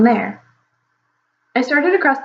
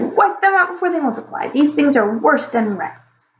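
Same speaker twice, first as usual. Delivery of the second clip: hunting dragon; 5 semitones higher than usual. Acted. Hunting dragon continues shouting.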